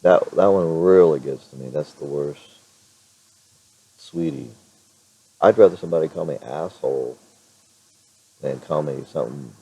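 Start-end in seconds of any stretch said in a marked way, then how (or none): 4.0-4.5 sweetie lifted much higher, sugary and mocking. Vlogger mocks strangers who call him sweetie, sugary mock coo. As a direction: coo the word like a patronizing stranger.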